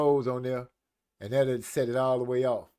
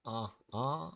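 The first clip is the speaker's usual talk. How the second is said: villain laugh; 8 dB quieter, much slower than usual. Retold or imitated. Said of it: "With the laugh to go".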